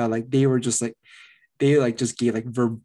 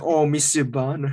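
fake British accent in French; 3 semitones higher, slower than usual. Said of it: "Is it like".

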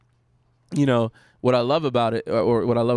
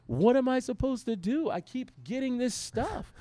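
much higher, giggly overwhelmed voice; laughing disbelief; 12 semitones higher, 5 dB quieter than usual. Retold or imitated. Pastor retelling brother-in-law laughing over the phone, higher and giggly. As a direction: laugh through it, unable to believe it. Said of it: "He's laughing hilariously".

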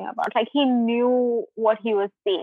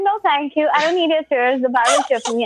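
arrogant; 3 semitones higher than usual. Retold or imitated. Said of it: "can you imagine this attitude".

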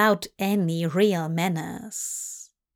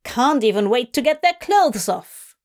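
loud piercing woman; 3 semitones higher, 4 dB louder than usual. Acted. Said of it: "loud and piercing voice".

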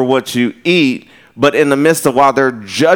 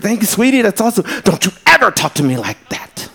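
imitating offended lady. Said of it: "tell this lady".

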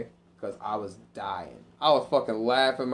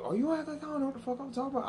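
sassy comeback; 3 dB quieter, faster than usual. Retold or imitated. Quoting himself arguing.

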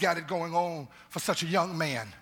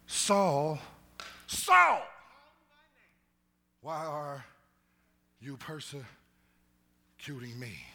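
divine call; slower than usual. Pretend. Heavenly voice calling down to Saul, cry then hush. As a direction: ring out the name, then whisper the question.

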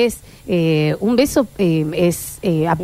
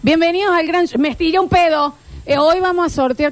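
TV host; 6 semitones higher than usual. Acted. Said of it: "vos conducís en la tele, dirías".

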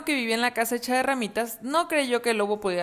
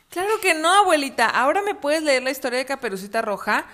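put-on eager child; 5 semitones higher than usual. Eager boy asks grandma.

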